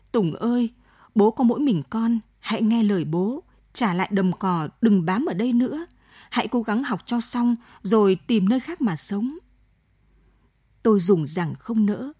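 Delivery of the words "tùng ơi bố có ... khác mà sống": a hint of a father's begging, pitched a little up; pleading. Father begs son to flee, mildly pleading. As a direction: plead gently but urgently with the son. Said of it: "giọng van vỉ".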